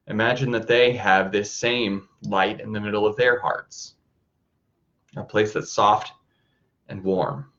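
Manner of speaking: calm, even voice with long pauses; guided meditation. Acted. Teacher guiding listeners to soften the heart, calm meditation voice. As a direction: lead them gently inward, leaving space between phrases.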